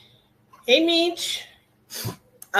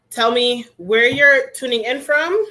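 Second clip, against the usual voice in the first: louder and slow, calling out to everyone; calling out to the class; 4 semitones higher, 7 dB louder than usual. Real, not acted. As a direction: project it to the whole room, slowly. Instructor calls out roll call.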